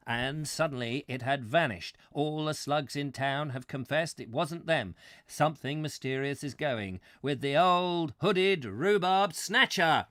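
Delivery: slow, ominous storytelling building to a loud finish; hammed-up documentary suspense; mock mystery narrator. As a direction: draw out the mystery, building to a boom.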